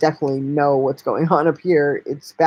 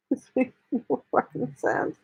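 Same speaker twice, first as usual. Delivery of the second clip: dropped-voice frustration; 6 semitones higher, 8 dB quieter than usual. Real, not acted. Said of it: "I'm so confused".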